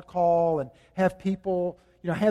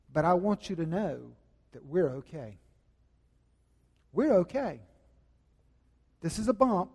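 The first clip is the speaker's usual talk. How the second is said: steady and gentle, showing men the words; calm reassurance. Shown as a demonstration. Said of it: "look her in the eye and say".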